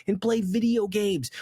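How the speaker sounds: indignant reality check; exasperated scolding. Acted. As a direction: scold a lazy complainer, swooping up in pitch. Scolds an imagined lazy complainer.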